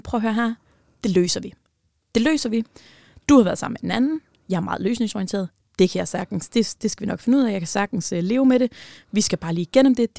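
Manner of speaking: pleading it can be solved; frantic reassurance. Retold or imitated. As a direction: talk fast to smooth it over. Frantically reassuring boyfriend after the cheating confession.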